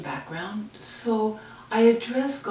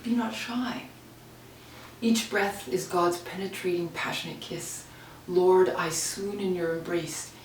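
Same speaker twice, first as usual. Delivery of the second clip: poem reading. Acted. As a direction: recite a passionate prayer that sinks to a tender close. Reads her love-letter poem.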